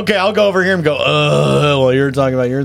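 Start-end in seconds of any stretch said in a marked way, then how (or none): 1.0-1.8 a deliberately faked yawn; fake yawn. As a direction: yawn on purpose, hammed up. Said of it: "That was, that was a fake yawn".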